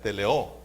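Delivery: "Teleo" with the final O stressed; stress on last syllable. Shown as a demonstration. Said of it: "con acento en la A". ("Teleo" con acento en la última sílaba)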